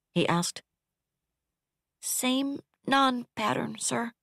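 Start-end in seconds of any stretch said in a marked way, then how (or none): 2.0-4.1 grated. Acted. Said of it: "she grated".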